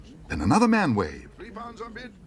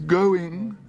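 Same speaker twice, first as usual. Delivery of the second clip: high, louder desperate call; desperate auctioneer; 11 semitones higher, 5 dB louder than usual. Acted. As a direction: plead for a higher bid. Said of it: "said the auctioneer desperately".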